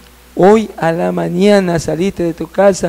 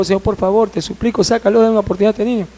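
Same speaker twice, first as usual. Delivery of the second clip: hushed, higher begging; retold hurried plea; supplication; 4 semitones higher, 4 dB quieter, faster than usual. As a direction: implore softly and urgently. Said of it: "le suplicó".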